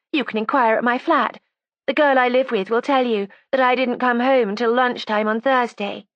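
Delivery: put-on high, defiant young woman; resentful young woman. A narrator's reading. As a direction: voice her as a sulky, stubborn girl. Judy's voice again.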